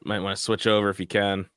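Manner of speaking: scrambled, dropping out signal; garbled connection cutting out; choppy cut off endings. Real, not acted. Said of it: "you're scrambling pretty hard now".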